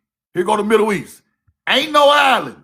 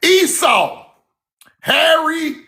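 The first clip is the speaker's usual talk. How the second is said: calling out; 5 semitones higher, slower than usual. Shown as a demonstration.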